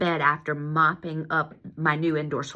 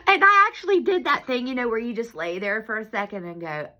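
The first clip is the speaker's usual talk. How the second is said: laughing disbelief; 5 semitones higher than usual. Real, not acted. Lying stunned after fall.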